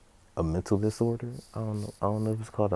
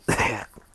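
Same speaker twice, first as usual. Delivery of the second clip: imitated little hacking burst; spitting up fire; 3 semitones higher than usual. Izuku after thanking the man, imitated fire spit. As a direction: cough it up like a tiny fireball. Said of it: "as he spits up a little".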